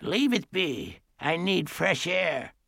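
put-on high, gentler old-lady voice. A narrator's reading. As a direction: ease off after the bark, still high. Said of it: "Then, in a gentler voice".

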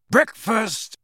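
loud, happy call, pitched high; joyful shout. Acted. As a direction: burst out with joy. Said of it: "said Sirius loudly and joyfully".

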